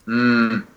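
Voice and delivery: low, short closed-mouth hum; sleepy hum. Retold or imitated. Son answering mom's early wake-up knock, short hum. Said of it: "Like, I'll hum".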